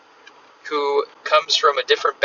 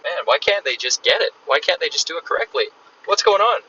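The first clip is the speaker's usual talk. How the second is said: mildly exasperated, higher-pitched questions; mock frustration; 5 semitones higher than usual. Coach voicing a frustrated employer about staff, mildly exasperated. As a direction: voice a frustrated boss's complaint, lightly acted. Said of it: "you're gonna get frustrated as heck".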